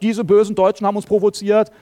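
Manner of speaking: mock indignant complaint; mock accusation. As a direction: blame the other side, lightly acted. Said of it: "die Franzosen haben gesagt".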